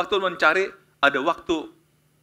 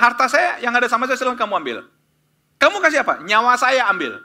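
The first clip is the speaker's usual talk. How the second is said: louder, higher bragging wager; heated bet; 7 semitones higher, 6 dB louder than usual. Acted. Student and buyer argue and bet, loud and higher. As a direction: raise the stakes with a loud boast.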